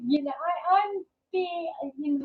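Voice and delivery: real tears breaking through a grateful story; choked up. Real, not acted. Telling the group about a kind therapist, choked up. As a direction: voice catching, rising on the words.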